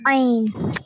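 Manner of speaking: loud "ऐन" squeezed from the throat; throaty opening on "ऐन", falling in pitch. Shown as a demonstration. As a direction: start "ऐन" deep in the throat. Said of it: "उसको हलक से निकलेगा".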